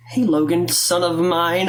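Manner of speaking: mock-corny mom hello; lightly hammed-up, cheesy parental hello; corny greeting. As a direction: imitate a parent's hokey greeting. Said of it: "this corny shit".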